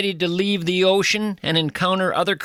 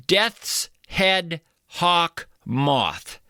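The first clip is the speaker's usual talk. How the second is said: very slow, ominous reading of the name; drawn-out dramatic; much slower than usual. Acted. Host reading a creature name to the audience, slow and ominous. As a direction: savour each word like a horror title.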